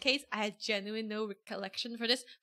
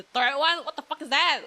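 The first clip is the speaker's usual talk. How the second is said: alarmed; 4 semitones higher, 9 dB louder than usual. Real, not acted. Alarmed at scary image.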